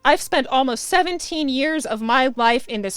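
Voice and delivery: loud, indignant outburst easing off at the end; yelling in protest. A narrator's reading. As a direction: yell it at your mother. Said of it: "I yell".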